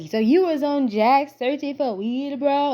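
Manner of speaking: put-on hint at a Jamaican accent; imitated Caribbean accent. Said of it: "he got an accent".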